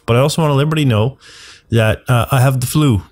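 blocked nose from the flu; stuffed up. Real, not acted. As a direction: speak through a stuffed-up nose. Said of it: "I'm very stuffed up".

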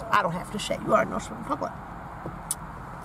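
hushed knowing aside; whisper. Real, not acted. Whispering a knowing aside to her viewers. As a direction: lean in and whisper it.

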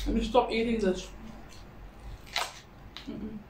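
chewing while talking; biting into pepper; mouth full of food. Real, not acted. Seen 2: Holds and bites green pepper, no sandwich; bites from 1.3s.

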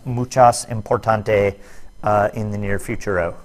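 mock Spanish accent, badly done; weird bad accent. Shown as a demonstration. Teacher goofing to students about an important point, bad Spanish accent. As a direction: slip into a silly fake Spanish accent. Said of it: "speaking with a weird, bad accent".

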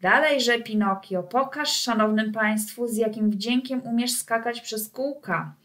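a mild ringmaster's call; called command. Acted. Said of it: "zawołał".

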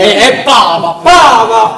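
loud shouted name; calling out. Acted.

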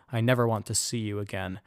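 firm, proud, final; cold dismissal. Acted. Jilted woman dismissing the suitor at the gate, coldly firm. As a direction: shut the door on him for good. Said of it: "holding her head high".

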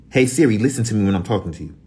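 scolding. Real, not acted. Scolding Siri.

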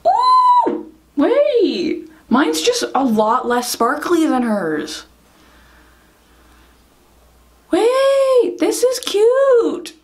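high, loud delighted squeal; excited. Real, not acted. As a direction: gush over how cute it looks. Excited reacting to the eye makeup.

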